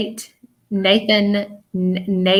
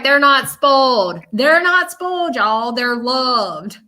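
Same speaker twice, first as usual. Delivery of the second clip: grandma's defense; 3 semitones higher, slower than usual. Retold or imitated. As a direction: insist fondly, like a doting grandma. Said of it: "She's like".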